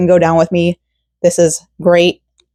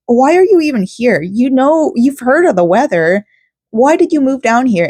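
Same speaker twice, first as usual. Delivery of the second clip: indignant; 6 semitones higher than usual. Retold or imitated. Continuing the rant about newcomers.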